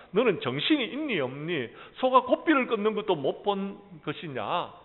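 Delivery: mother-in-law shouting at her daughter-in-law; scolding shout. Acted. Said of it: "라고 소리를 질렀습니다".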